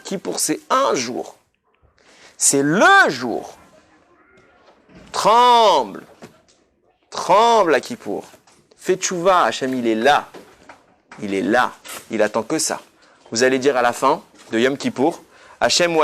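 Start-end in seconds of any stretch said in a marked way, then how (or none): 5.1-10.3 stern warning. Acted. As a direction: drive the word home like a warning. Sermon exhortation on Kippour.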